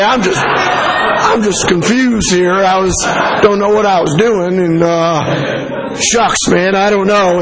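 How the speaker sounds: a light, hammed-up American accent. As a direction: play the confused American tourist with an American accent. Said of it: "put on my American accent and say".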